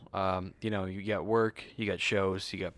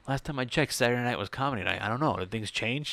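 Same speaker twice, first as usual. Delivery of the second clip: higher, a touch louder, dry teasing; teasing mentor voice; 4 semitones higher, 3 dB louder than usual. Retold or imitated. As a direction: tease him like the wise uncle. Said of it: "he'll be funny with it".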